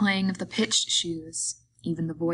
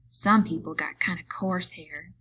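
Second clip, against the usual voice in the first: complacent. Acted. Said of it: "she said complacently".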